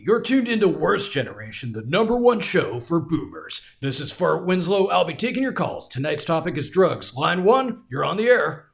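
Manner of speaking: smooth late-night radio host. Acted. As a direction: ease in like a radio DJ. Boomer radio host intro.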